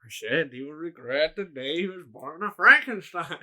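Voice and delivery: put-on theatrical voice; mock dramatic threat. Repeating the film line to co-host, mock dramatic. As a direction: declaim it like a movie villain.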